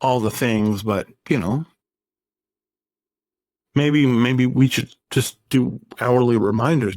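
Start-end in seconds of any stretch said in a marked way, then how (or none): 3.8-6.9 sarcastic. Real, not acted. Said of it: "getting really sarcastic".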